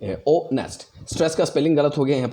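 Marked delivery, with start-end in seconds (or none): 0.3-1.1 "ओ नेस्ट" split slowly, weight on NEST; stress on second syllable. Shown as a demonstration. Teacher giving an iamb example, "ओ नेस्ट" stressed on NEST. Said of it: "बाद में stressed होगा".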